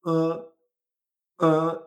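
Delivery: uh as a bare throat vibration; uh, the muffled vowel after Chinese z; vowel in place of I. Shown as a demonstration. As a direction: hold a short buzzed uh instead of i. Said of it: "hacemos este sonido".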